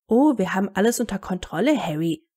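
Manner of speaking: quick, sing-song mimicry; mocking imitation. Harry parrots the reassuring adults, mocking. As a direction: ape their soothing words, dropping on the name. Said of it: "äffte er nach".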